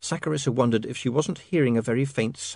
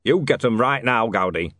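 sharp loud order; snapping; 5 dB louder than usual. Acted. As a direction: snap the command. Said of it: "snapped Bodney".

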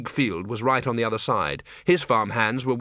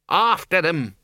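mild battle yell; 5 semitones higher, 4 dB louder, slower than usual. Acted. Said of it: "screamed the Dean".

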